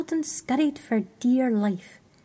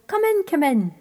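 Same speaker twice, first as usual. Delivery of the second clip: higher, louder glad welcome; cried out; 5 semitones higher, 5 dB louder than usual. Acted. Orfeo welcoming the freezing creatures, louder glad cry. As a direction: call out a hearty welcome. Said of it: "cried Orfeo".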